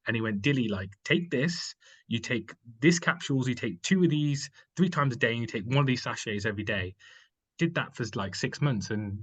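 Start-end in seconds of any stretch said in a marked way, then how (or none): 0.4-6.9 put-on German accent. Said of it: "in, like, a really thick German accent".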